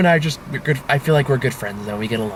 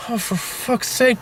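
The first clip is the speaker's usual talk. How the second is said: exasperated; 8 semitones higher, 3 dB quieter, slower than usual. Retold or imitated. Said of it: "for one hand thinking".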